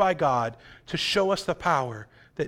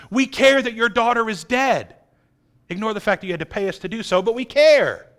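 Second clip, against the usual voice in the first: insincere; 5 semitones higher, 3 dB louder than usual. Pretend. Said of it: "showing how insincere their mourning is".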